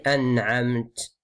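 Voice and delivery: "أنعمت" with no final vowel, small puff after t; careful pause-form "أنعمت"; stop on T. Shown as a demonstration. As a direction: end "أنعمت" on a breathed t. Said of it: "le petit R là".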